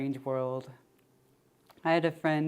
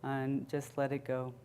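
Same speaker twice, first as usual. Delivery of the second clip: unhurried check-in with body and breath; guided meditation. Acted. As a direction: ease them inward, leaving long pauses.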